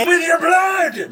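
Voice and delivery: high, loud battle shout; menacing little creature. Acted. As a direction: shriek a threat as a small fierce monster. Game master voices the attacker.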